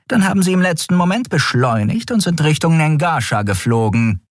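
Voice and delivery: brief the admiral urgently; lightly voiced officer. A narrator's reading. (knappe Meldung an den Admiral)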